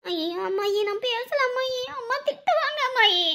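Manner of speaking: put-on soft, anxious child's pleading; frightened plea. Child begs grandmother to avoid mother's scolding, afraid. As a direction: beg quietly not to be put on.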